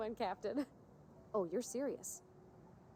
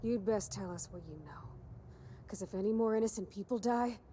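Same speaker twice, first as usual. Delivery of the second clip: bad cop. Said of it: "Was that too much?".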